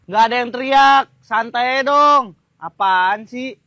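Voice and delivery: loud, defensive retort; irritated denial. Acted. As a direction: deny it loudly and crossly. Second take, he snaps.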